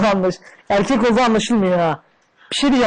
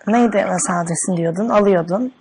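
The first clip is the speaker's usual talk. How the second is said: man doing a woman's voice. Pretend. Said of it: "Oğlum ben kadın sesi yapamam ki".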